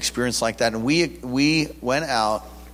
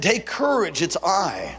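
Jesus calming; 4 semitones higher, slower than usual. Retold or imitated. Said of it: "And he said".

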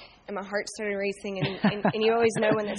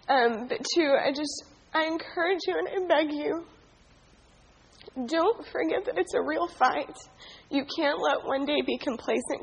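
crying; 3 semitones higher than usual. Real, not acted. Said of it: "'cause I already know I'm gonna cry".

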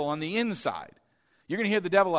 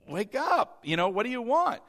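put-on insistent young Samuel; 5 semitones higher than usual. Samuel wakes Eli yet again.

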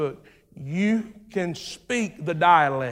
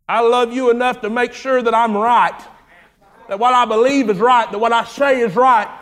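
rising preaching cry; 4 semitones higher, 6 dB louder than usual. Real, not acted. Pastor declares his care.

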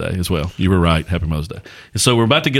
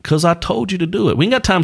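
high mock-stern parent voice; bossy parent; 10 semitones higher than usual. Dad imitating himself ordering his kids, high and bossy. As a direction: play the parent who won't explain. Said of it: "It's like".

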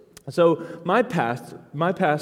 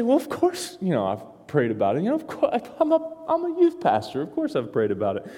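high, mock-defensive protest; hammed-up self-righteous reply; mock indignant; 3 semitones higher than usual. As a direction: play the offended youth pastor. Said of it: "I was really tempted to say".

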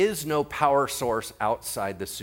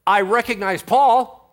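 demon voice; 9 semitones higher, 9 dB louder than usual. Acted. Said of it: "so then it says".

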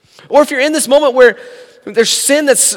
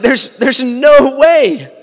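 sarcastic; 3 semitones higher, 3 dB louder, much slower than usual. Retold or imitated. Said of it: "There is sarcasm coming from Philip's heart".

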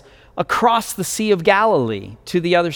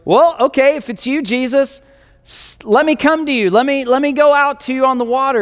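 higher, eager, rushing at the end; eager Peter; 7 semitones higher, faster than usual. Acted. Peter calling eagerly to Jesus, higher and rushing. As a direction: Peter bursting to step out, speeding up. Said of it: "Peter, being Peter, goes".

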